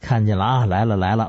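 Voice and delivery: lightly droning séance chant; a hint of repetitive incantation; trance-like babbling. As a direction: intone it like a medium, level pitch. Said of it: "叨唠".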